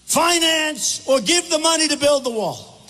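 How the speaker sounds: high, drawn-out mock defiance; imitated furious refusal, pitched high; imitating crazed outrage. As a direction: stretch out each word like an outraged leader refusing. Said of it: "This is the way he said he was going crazy".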